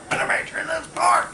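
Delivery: very high, fast mock yell; really mad. Infuriated bar patron to the bartender, high angry imitation. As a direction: imitate an infuriated regular protesting. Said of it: "You know, just really mad".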